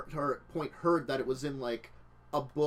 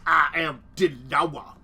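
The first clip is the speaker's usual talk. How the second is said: loud, slow, slurred action-star impression; bad Sly Stallone accent; 9 dB louder than usual. Player correcting friend on how the catchphrase must be said, bad Stallone accent. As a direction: drag it out loud in a badly faked accent. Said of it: "For my bad Sly Stallone, uh, accent".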